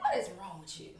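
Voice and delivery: high, loud mock scolding of herself; laughing mock scold; mock self-scolding. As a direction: scold yourself in a squeaky voice. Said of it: "I just started bawling".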